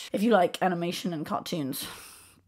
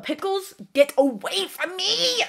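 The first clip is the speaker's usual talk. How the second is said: disgusted; 9 semitones higher than usual. Pretend. Disgust, high pitch.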